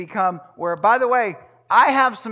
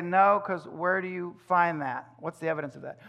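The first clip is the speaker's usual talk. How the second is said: calm; 3 dB quieter than usual. Retold or imitated. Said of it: "I'll just calmly say".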